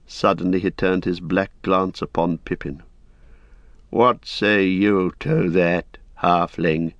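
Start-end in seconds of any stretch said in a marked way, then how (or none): 3.9-6.9 put-on slow, cold old lord's question; cold challenge. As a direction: press the hobbit, slowly and coldly. Denethor turns on Pippin.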